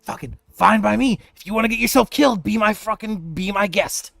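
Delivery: loud, high, irritated snap; angry. Acted. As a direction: spit it out, fed up and annoyed. NPC snaps at party.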